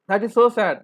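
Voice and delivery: a loud lament, stressing so; dismayed emphasis. Real, not acted. Teacher laments neglected oil seeds.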